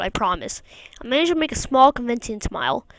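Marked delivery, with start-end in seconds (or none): 0.0-0.6 whispered promise. Acted. Comforting crying mom softly.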